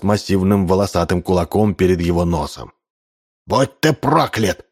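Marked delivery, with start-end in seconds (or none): 3.5-4.7 slow, high-pitched angry curse; narrated fury of an old chief; shouted curse. A narrator's reading. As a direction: cry it out, drawing the words out. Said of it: "прокричал он".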